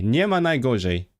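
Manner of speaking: Polish phrase in an odd accent; weird-accented Polish. Real, not acted. Streamer trying a Polish saying, weird accent. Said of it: "I said it with a weird accent".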